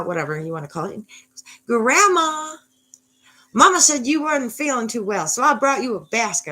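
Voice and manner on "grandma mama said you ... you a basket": put-on high, loud Southern little girl; Southern accent. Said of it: "I don't know where that accent came from".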